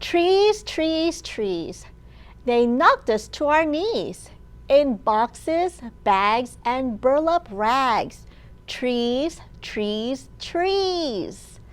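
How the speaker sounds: put-on chanted refrain for children; read-aloud rhyme. A narrator's reading. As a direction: read the rhyme with a bouncing beat.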